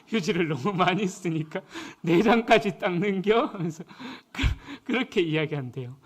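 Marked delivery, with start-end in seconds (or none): 2.0-3.5 Chungcheong dialect. Retold or imitated. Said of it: "식당 주인이 이렇게 한대".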